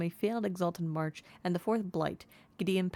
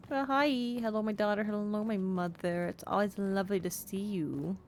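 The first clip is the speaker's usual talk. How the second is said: 1 delighted greeting; 3 semitones higher than usual. Real, not acted. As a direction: greet mum happily. Greeting mother in chat.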